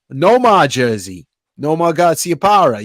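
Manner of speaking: hammy attempt at a Boston accent; bad Boston accent. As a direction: put on a weak Boston accent. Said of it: "That was a bad Boston accent".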